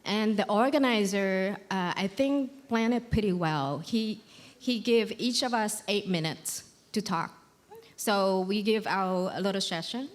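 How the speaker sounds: nervous, trembling but steady; shaky voice. Real, not acted. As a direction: talk on through the nerves, voice wobbling. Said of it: "I don't know why my voice is shaking".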